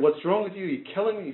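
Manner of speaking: furious, accusing screaming. Telling a joke, the patient screaming at the doctor: screaming at the doctor. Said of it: "He starts screaming at the doctor".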